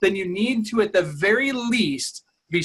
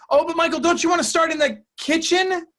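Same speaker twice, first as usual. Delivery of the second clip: seller's voice pitched way up, pleading; high whiny seller; 11 semitones higher, 3 dB louder than usual. Retold or imitated. Seller pleading high with the agent to start in kitchen. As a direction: plead high like a nervous homeowner. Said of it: "she's saying".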